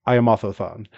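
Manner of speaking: Otho-san with a lisped th; light mock lisp on Otho-san; imitating a lisp. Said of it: "the first wrestler and goes".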